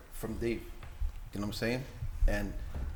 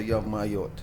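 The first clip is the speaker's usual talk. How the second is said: Jamaican patois greeting; light Jamaican yard accent; 2 semitones lower than usual. Retold or imitated. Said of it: "my yard accent".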